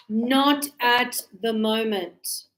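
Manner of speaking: not at the moment spoken slowly, stressing not; slow modelling. Shown as a demonstration. Teacher modelling the answer slowly to students. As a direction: draw it out for the class. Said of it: "And no".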